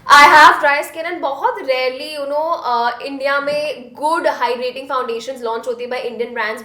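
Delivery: Hindi-English code-switching; switching languages midsentence. Real, not acted. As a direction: swap between English and Hindi mid-line.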